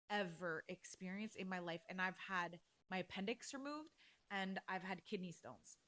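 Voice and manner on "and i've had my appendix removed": normal talking voice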